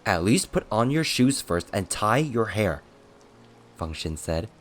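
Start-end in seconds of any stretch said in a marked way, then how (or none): 0.0-2.8 louder, insistent instruction; insistent urging. Acted. Attendant telling his master to dress first, insistent. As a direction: press him to wait, voice raised.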